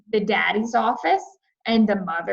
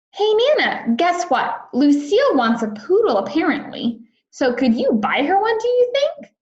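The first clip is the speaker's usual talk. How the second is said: high-pitched asking; 7 semitones higher, 3 dB louder than usual. A narrator's reading. Junie asks Nana, high pitch.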